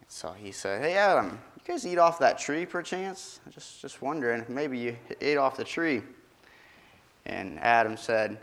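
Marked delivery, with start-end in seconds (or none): 0.8-6.0 higher, coaxing mock-innocent question; God questioning. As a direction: ask Adam sweetly, already knowing. God voiced questioning Adam.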